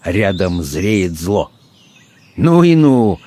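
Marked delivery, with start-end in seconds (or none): 2.4-3.2 higher-pitched exclamation of amazement; exclaiming. A narrator's reading. Man of science marvelling at the knife, exclaiming. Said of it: "воскликнул человек науки".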